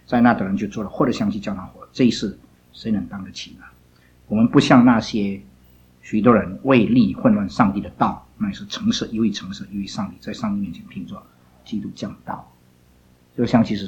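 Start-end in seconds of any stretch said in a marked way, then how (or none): 4.3-9.7 许多人为利混乱上帝的道 read slow and deliberate, word by word; slow careful reading. Shown as a demonstration. Teacher rereads the verse slowly for the students to hear properly. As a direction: read it again slowly so they catch it. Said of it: "我再读一次啊".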